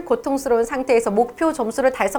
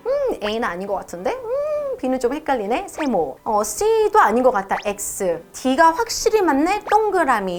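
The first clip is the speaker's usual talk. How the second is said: lightly acted student weighing answers while listening; test-taker thinking aloud. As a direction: think aloud, hesitant hums then deciding. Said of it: "들으시면서". (문제 풀며 혼잣말하듯)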